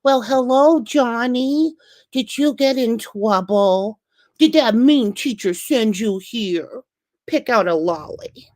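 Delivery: high, slow, syrupy principal ending in a whisper; sweet principal. Retold or imitated. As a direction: coo to the kid like a doting grandma. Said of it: "they're like".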